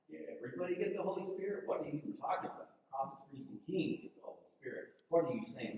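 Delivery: rushed, hushed disbelief; incredulous. Acted. Preacher voicing doubters scoffing quickly at John's claim. Skeptical listeners questioning John.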